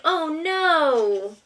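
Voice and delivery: loud, high, dismayed oh no; voicing Bug's alarm. Mother voices Bug for her toddler, loud and dismayed. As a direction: play the bug suddenly alarmed. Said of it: "He's like".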